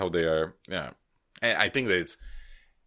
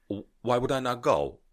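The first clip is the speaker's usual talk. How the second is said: higher, hammed-up Liverpool contestant; 5 semitones higher than usual. Auditioner explaining to the judges, mock Liverpool contestant voice. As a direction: play an eager auditioner from Liverpool, pitched up. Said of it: "were in Liverpool".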